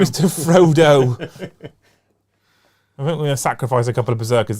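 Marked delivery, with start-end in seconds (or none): 0.0-1.2 Gollum voice. Pretend. Gollum echo, Mister Frodo.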